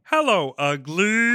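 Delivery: find the spooky voice on hello. Shown as a demonstration. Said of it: "to get to the voice, I have to go".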